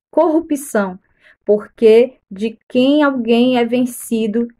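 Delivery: deliberate Bible reading in measured phrases; careful, evenly paced read-aloud; scripture reading. Acted. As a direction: read the passage out formally, pausing between clauses.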